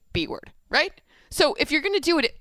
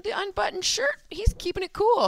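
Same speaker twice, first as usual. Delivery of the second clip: excited; 10 semitones higher than usual. Real, not acted. Excited, high-pitched.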